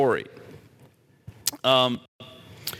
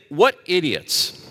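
scornful thought; 3 semitones lower, slower than usual. Pretend. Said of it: "we can think".

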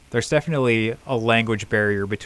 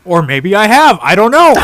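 louder, higher laughing admission; giggly louder maybe I have; 10 semitones higher, 13 dB louder than usual. Real, not acted. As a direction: crack up at yourself. Laughing self-correction.

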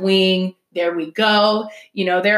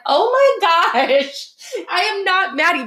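high, laughing oh my gosh; laughing disbelief; 11 semitones higher, 3 dB louder than usual. Retold or imitated. Telling a worried friend she isn't mad, laughing. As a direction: laugh it off so she stops worrying.

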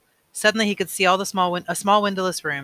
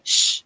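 sharp hush; 6 dB louder than usual. Acted. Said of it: "the giver said sharply".

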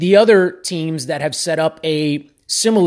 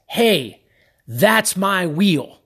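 authoritative; much slower than usual. Retold or imitated. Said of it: "like, just authoritatively, confidently".

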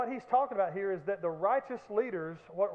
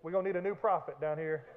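deadpan threat; 4 semitones lower than usual. Pretend. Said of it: "I'd be like".

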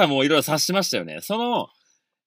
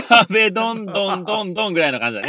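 laughing; 5 semitones higher, 4 dB louder than usual. Real, not acted. Laughing about the wall banging.

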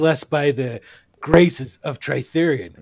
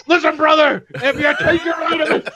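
Hulk Hogan impression; 12 semitones higher than usual. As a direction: hype it like a wrestler. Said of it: "what was Hulk Hogan's thing".

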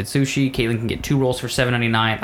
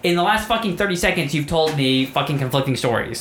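higher-pitched, insistent replay; exasperated accusation; 5 semitones higher than usual. Retold or imitated. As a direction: lay out the lie, fed up. Retold quarrel, accusing of lying.

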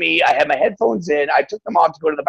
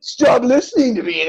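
mock complaining user; 3 semitones higher than usual. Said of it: "people complain about".

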